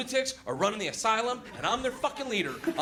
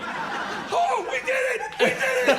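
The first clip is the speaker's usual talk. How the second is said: higher, louder victory whoops; mock NASA cheer; 5 dB louder, slower than usual. The crowd cheering like Apollo control room, excited whoop. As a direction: celebrate like mission control. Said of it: "control room in nasa".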